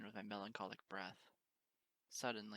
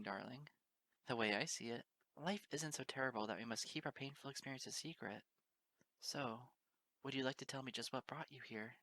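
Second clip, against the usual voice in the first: reassuring; 3 semitones higher than usual. Acted. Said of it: "the tone of her voice in tandem with a reassuring touch".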